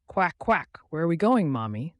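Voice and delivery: a small duckling tugging at mom; gentle duckling. Acted. Duckling asks its mother where they go, gently. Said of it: "the duckling asked gently".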